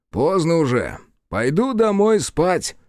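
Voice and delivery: sleepy yawn through the words. Acted. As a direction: say it mid-yawn, drowsy. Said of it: "Он зевнул".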